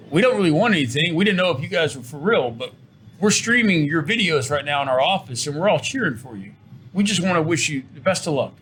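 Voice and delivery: put-on English accent. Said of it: "in his English accent".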